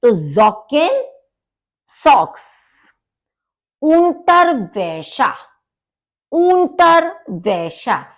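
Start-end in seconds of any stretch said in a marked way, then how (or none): 0.1-1.0 ज़ोकेन with a voiced z; German pronunciation. Shown as a demonstration. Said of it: "नुक्ता लगा होता है उसकी तरह से बोलते हैं". 3.8-8.0 unterwäsche very slow and higher, ä as e; slow German pronunciation. Shown as a demonstration. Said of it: "ए के ऊपर उमलाउट है".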